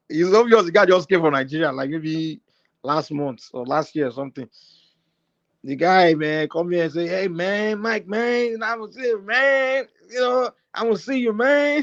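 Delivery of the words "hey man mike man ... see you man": slow, higher-pitched fake American accent. Retelling a caller's words: imitating a fake American accent. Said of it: "The guy was trying to speak with American accent".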